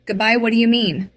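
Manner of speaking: put-on a child's bewildered plea; confused. A narrator's reading. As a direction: ask in shocked disbelief. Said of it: "I blinked, confused".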